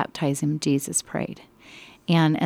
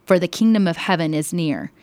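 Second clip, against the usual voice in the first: preaching loudly; 4 dB louder than usual. Acted. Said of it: "he was preaching loudly".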